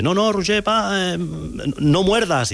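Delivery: high-pitched imitation of a warning; retold urgent warning. Retells staff stopping his biting.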